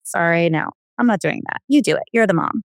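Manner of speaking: lightly voiced defiant daughter brushing mom off; teen refusing. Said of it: "she'll just say".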